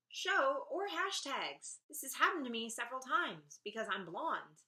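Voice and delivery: ordinary delivery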